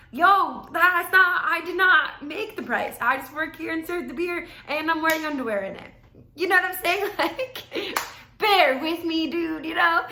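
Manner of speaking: heated venting. Real, not acted. Server venting about customers blaming her, heated and loud. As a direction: let it pour out, exasperated.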